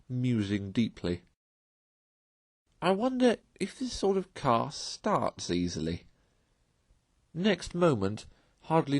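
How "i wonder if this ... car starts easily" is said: Toad wondering. A narrator's reading. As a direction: wonder aloud, tempted and eager.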